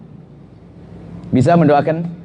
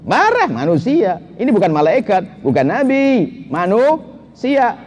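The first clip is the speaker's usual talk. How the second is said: slow emphasis; 3 semitones higher, slower than usual. Real, not acted. Slowed emphatic sermon point.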